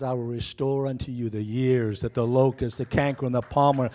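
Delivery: God's promise thundered to the church; preaching scripture. Acted. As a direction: build the verse into a loud declaration. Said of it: "Joel two says, God says".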